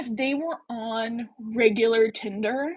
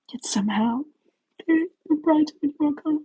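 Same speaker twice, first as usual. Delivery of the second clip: mock sultry voice; 5 semitones higher than usual. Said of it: "Her voice two octaves lower than he's ever heard it".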